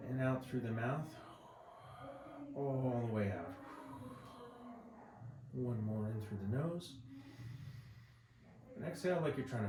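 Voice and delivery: calm, unhurried relaxation-exercise voice; guided body scan. Acted. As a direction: guide them gently through each breath. Leads breathing body scan.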